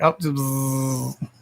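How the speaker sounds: breathy whisper, no voice; whispered buzz-off. Retold or imitated. Brushing off a drive-through worker, whispered. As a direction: hiss it out under the breath. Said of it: "I'm like".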